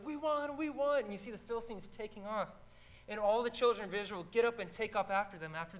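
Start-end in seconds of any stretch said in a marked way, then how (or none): 0.1-1.1 victory cry. Retold or imitated.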